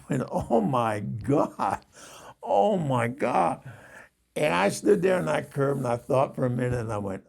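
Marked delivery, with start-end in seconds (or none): 0.3-3.6 slow, drawn-out Oh my God; stunned disbelief. Retold or imitated. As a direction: let the words hang in disbelief. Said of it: "I was in total disbelief".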